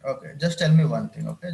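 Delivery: teacher cuts in, loud and firm. Real, not acted. Teacher to student on a call, firm and loud. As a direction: raise the voice to grab attention.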